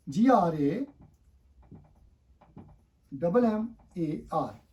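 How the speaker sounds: letters spelled out slowly; slow spelling. Shown as a demonstration. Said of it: "spells slowly".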